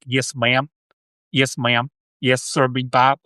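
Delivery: imitated Southern hillbilly accent; lightly put-on American hillbilly drawl. Shown as a demonstration. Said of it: "I think it's the hillbilly".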